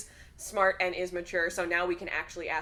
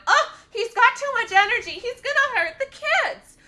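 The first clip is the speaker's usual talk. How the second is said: mocking worried family; 12 dB louder than usual. Mocking the family who gave Gimli away as too energetic, shrill panic. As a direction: ham up their fretting. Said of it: "put 'em together and went".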